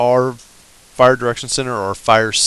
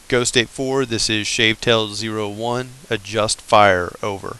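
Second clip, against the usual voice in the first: radio call voice. Shown as a demonstration. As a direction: read it like a radio transmission. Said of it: "you would say".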